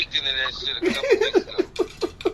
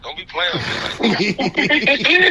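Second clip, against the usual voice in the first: stern warning; 8 semitones higher, 5 dB louder, slower than usual. Retold or imitated. Retold warning to his date.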